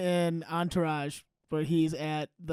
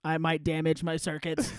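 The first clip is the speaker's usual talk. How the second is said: robot voice; 3 semitones lower, 5 dB quieter than usual. Pretend. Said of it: "He'd be like".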